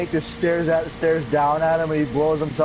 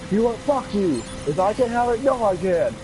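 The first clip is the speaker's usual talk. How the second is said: angry yell; 6 semitones higher than usual. Retold or imitated. Acted soldier quarrel.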